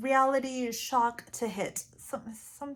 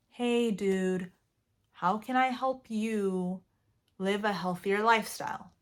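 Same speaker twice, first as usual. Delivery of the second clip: relaxed, calm. Shown as a demonstration. Offering help to a loved one, relaxed and calm. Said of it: "a more relaxed, calm tone".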